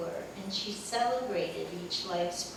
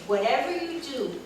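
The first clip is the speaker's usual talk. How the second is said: laughing warning; 2 semitones higher than usual. Retold or imitated. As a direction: warn while trying not to laugh.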